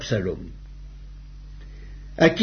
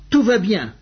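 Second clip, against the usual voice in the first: higher, lightly called-out good news; mild cry of announcement; 6 semitones higher than usual. A narrator's reading. Achimaas announces to the king, mildly calling out. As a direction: call it out higher, without really shouting. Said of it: "Achimaas cria et dit au roi".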